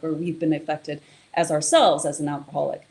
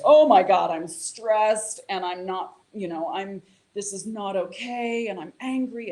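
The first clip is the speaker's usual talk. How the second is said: panicked amygdala; 3 semitones higher than usual. Retold or imitated. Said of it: "the amygdala goes".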